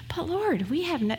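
a little whiny. Retold or imitated. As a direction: whine it a touch, like a complaining student. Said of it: "it's a little whiny maybe".

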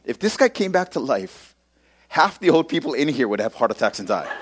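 retold giddy speculation, breaking into a laugh; amused, giddy aside to a buddy. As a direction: tell it with mounting giddiness, then laugh. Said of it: "giddy, you know? I'm just like".

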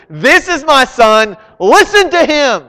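booming high and loud, commanding; loud voice of God. Acted. God speaking to the disciples on the mountain, booming loud. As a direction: proclaim it from the cloud. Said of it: "God comes down with a loud voice".

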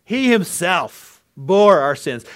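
He himself bore our sins, He high and loud, slow; emphatic He himself. Shown as a demonstration. Preacher driving home He himself. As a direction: hammer He himself. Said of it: "It's emphatic in the Greek".

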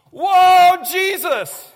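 sudden high yell of alarm; shouted to Jesus. Retold or imitated. Pastor yelling to Jesus in the falling plane, loud and high. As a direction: yell it out in panic as the plane drops. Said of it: "I shouted to Jesus".

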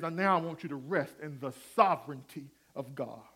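soft hushed whisper. Acted. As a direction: breathe it, barely voiced. Quoting the preacher, whispered.

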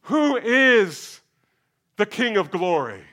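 high loud challenge from behind the walls; voice over the wall. Acted. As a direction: call back a challenge. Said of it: "a voice comes back".

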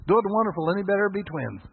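high, loud, beaming greeting; joyful Jerry. Retold or imitated. Preacher voicing Jerry's cheery answer, high and loud. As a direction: sell it like the happiest man alive. Exuberant restaurant owner Jerry quoted.

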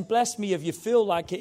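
offhand, take-it-or-leave-it plea; casual, optional request. Acted. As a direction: ask it mildly, as if it hardly matters. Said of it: "He's not just saying".

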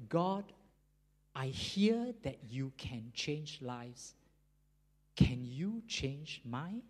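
slow, halting plea to God; retold prayer, spoken slowly and plainly; simple prayer. Prisoner asking God to change his life, simple slow prayer. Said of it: "So he said a simple prayer".

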